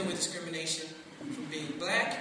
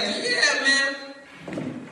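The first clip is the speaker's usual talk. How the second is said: loud, higher mock buddy agreement; mock agreeing boss; 6 semitones higher, 7 dB louder than usual. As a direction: play the boss almost agreeing. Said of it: "They're like".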